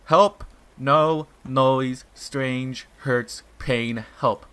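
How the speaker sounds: frantic pleading call; loud desperate plea. Acted. Pyrseed calling Alpha in panic, loud plea.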